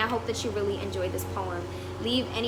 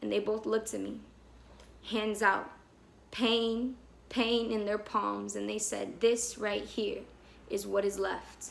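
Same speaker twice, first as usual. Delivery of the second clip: softer, spaced-out closing lines; quiet spoken-word close, dropping away; hushed poem ending; 3 dB quieter, slower than usual. Acted. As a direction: let the poem fade phrase by phrase.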